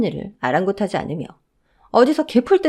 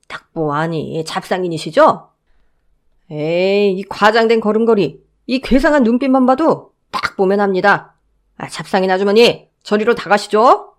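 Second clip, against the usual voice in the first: a guard brushing off a peddler, louder; guard shooing the supposed peddler away; lightly voiced dismissive guard; 4 dB louder than usual. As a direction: wave her off, sure of himself.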